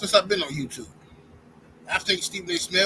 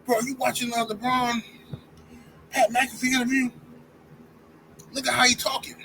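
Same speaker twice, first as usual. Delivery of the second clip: mock caller; 5 semitones higher than usual. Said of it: "call me".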